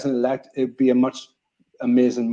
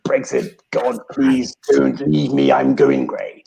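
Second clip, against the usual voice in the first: begging an ex back. Retold or imitated. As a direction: beg her not to leave, in Boris voice. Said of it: "that's a top impression".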